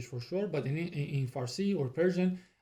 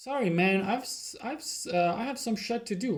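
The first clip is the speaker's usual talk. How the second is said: mock apologetic excuse; 5 semitones higher than usual. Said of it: "And B says".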